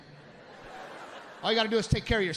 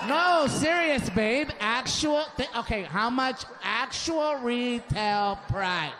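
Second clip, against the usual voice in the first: wife insisting slowly; 4 semitones higher, much slower than usual. Retold or imitated.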